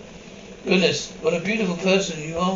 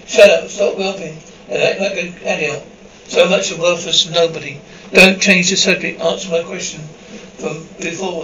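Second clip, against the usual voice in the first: louder, barking orders at a crying sibling; angry shout; 6 dB louder than usual. Acted. Big brother yelling at his whimpering sibling, angry shout. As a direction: shout him down, furious and fed up.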